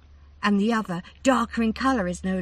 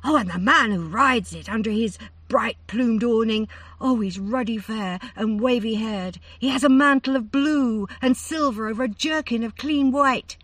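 higher and louder, stammering in awe; breathless excitement; 6 semitones higher, 7 dB louder than usual. A narrator's reading. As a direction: let the wonder run away with her. Daughter describes riders, rising.

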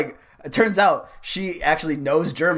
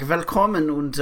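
German welcome. Shown as a demonstration. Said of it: "you could be like".

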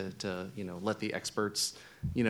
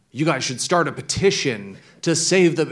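reader comment voice; 7 semitones higher, 9 dB louder than usual. Retold or imitated. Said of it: "we often see comments that say".

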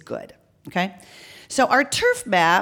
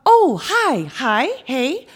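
high, startled burst of hellos; flustered greeting; 7 semitones higher, 5 dB louder, much slower than usual. Acted. Canvasser answers the intercom, flustered and high. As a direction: greet as if caught off guard, starting high and loud.

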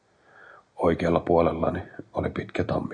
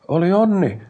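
much higher and louder, over the machine; raised voice; 12 semitones higher, 8 dB louder than usual. A narrator's reading. Brother talks over the rising machine noise, raised voice. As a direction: raise your voice sharply. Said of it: "Aikpod korotti ääntään".

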